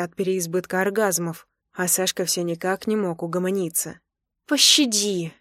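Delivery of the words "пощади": a breathless mock plea for mercy; pleading. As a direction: beg him to stop, half laughing. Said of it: "взмолилась я".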